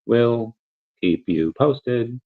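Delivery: slow, even robot voice. Real, not acted. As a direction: drone it out like a robot. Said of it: "Why do I sound like a robot?".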